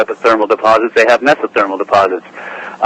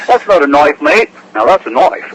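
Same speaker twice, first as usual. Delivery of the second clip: Australian accent impression; 4 semitones higher than usual. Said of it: "your Australian accents".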